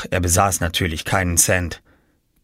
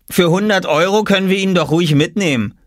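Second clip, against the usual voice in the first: higher boy voice, mocking; Jakob teasing; 9 semitones higher, 3 dB louder than usual. A narrator's reading. Jakob mocking Oskar as goods, teasing. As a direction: tease as if bargaining. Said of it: "schlug Jakob vor".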